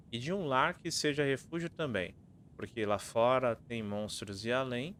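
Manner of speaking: riddle recited with lilting line ends; reading verse aloud. Acted. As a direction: read each line out clearly like a rhyme.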